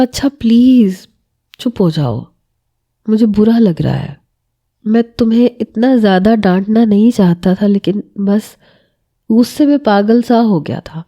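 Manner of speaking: a husband calming his crying wife, gently; a touch of tender coaxing. Acted. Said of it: "وہ بڑی نرمی سے کہہ رہا تھا".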